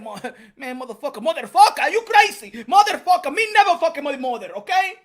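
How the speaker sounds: put-on shouted high and loud, broken English with a Mexican accent; mock Mexican-accented yell. Retelling Canelo's reply to Plant in a shouted Mexican accent. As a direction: bellow it like an outraged Mexican boxer with broken English. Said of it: "He said".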